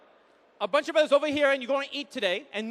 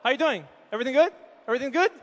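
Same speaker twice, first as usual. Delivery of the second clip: a hint of low-pitched guy-to-guy greeting; guys' talk; 3 semitones lower, much faster than usual. Shown as a demonstration. Guys check in with each other, lightly mimicked guy talk. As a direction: lightly mimic terse male small talk. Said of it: "this is how we talk".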